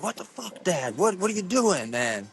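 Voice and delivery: high, startled mock disbelief at dad; incredulous yelp. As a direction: squeak it out in disbelief. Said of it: "I was like".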